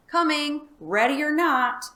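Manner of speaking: high, loud hunting call; yelling. Acted. Farmer calling out loud while hunting the demon. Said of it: "yelling all the while".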